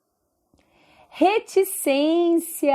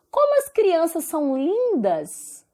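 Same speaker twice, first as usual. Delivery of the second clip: higher-pitched admiring exclamation; exclaiming; 4 semitones higher than usual. Shown as a demonstration. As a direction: exclaim it as a model sentence, with admiration. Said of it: "tá exclamando".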